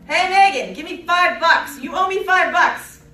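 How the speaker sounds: loud, high demanding street thug; pushy mugger. Pretend. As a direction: bark it like a shakedown. Mock mugger demands money.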